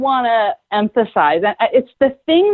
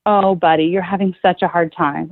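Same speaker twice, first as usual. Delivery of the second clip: empathetic. Shown as a demonstration. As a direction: gently model sympathy for an upset child. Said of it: "something empathetic about his feelings".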